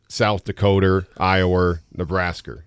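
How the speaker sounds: South "Dakota", "Iowa", "Nebraska" ending in an R sound; added final R. Shown as a demonstration. Guest showing East Coast speech, added final R. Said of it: "is how we would say".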